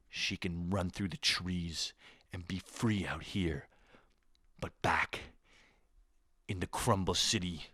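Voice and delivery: hushed, soft dramatic novel narration; lightly hushed storybook narrator voice; young adult narrator. Retold or imitated. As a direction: read it like a moody teen novel blurb. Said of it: "my impression of every young adult novel".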